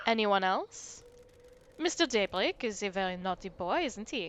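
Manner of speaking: put-on light French accent, coy and scolding; hint of French, naughty-boy teasing. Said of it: "the accent".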